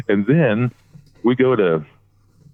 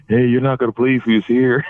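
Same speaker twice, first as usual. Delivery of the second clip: imitated kid bursting with news, slightly higher; excited high-school kid; 5 semitones higher than usual. Friend unaware Ron Simmons is right behind him, imitated schoolkid excitement. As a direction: lightly play an eager teenager. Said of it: "he's all talking like a kid in high school".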